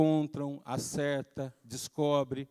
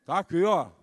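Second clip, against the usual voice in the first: put-on cheeky child; 4 dB louder than usual. Child shows gum again.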